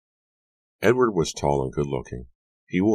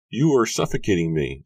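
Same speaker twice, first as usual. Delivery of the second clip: high, louder mock protest; playful exclamation; 6 semitones higher, 5 dB louder than usual. A narrator's reading. Susanna to Edward after a kiss, playful exclamation. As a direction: exclaim it through a grin. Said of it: "she exclaimed, grinning at him".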